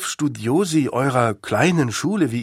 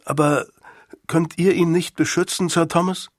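put-on higher-pitched young voice, anxious appeal; pleading schoolboy; 6 semitones higher than usual. Boy begs Sir Thomas to protect father, pleading.

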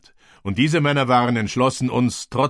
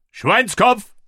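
higher, more urgent battle cry; shouted command; 12 semitones higher, 4 dB louder than usual. A narrator's reading. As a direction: call it again, even higher. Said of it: "rief ich".

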